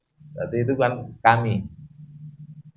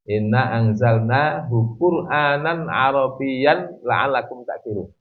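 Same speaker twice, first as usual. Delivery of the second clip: Quran recitation; 2 semitones higher than usual. Shown as a demonstration. Teacher quotes a Quran verse.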